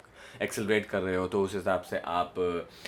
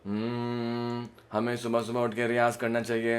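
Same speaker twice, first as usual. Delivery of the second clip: the line sung in the bottom of the range; low register. Shown as a demonstration. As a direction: riyaz line in the low part of the voice. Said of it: "नीचे का".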